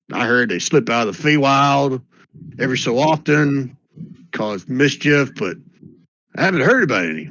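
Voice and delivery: put-on an old-timer sure of his folk tales; cranky old geezer. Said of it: "that guy's Yosemite Sam".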